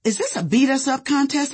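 high, confrontational challenge; losing it. A narrator's reading. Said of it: "I lost it on him".

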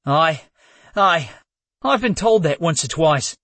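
nervous stammer. Acted. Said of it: "Logan gulped".

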